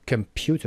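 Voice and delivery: com-PU-ter, pyu stressed in computer; stress on middle syllable. Shown as a demonstration. Teacher points out word stress, PU stressed in computer. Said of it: "قسمت پیو".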